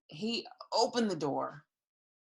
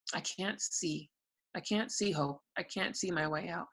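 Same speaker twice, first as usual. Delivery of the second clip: soft, defeated murmur; hopeless, quiet; 6 dB quieter than usual. Retold or imitated. Telling her husband she sees no hope, soft and defeated. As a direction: let it sink almost to nothing.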